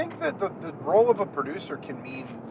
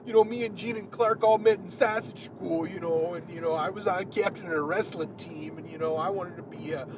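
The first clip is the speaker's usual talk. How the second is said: goofy character voice; 4 semitones higher than usual. Retold or imitated. Voicing mockumentary band member.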